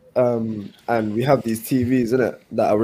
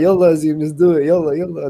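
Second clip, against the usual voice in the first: pushy customer; 5 semitones higher, 3 dB louder than usual. Retold or imitated. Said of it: "And he's like".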